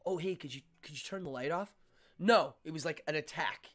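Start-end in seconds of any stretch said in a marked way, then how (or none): 0.0-1.7 mild, friendly favor; casual polite request. Retold or imitated. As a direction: ask gently, no attack in it. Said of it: "It wasn't like a".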